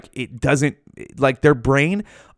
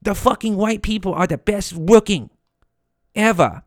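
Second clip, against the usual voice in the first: high, prissy cat voice; a Siamese cat sticking up for humans, pitched high; 7 semitones higher than usual. Acted. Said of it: "the Siamese cats are like".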